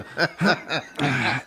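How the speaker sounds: soft mock bathroom exhale; imitated straining sigh. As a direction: let out a quiet, imitated settling-down sigh. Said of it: "So then you hear him like".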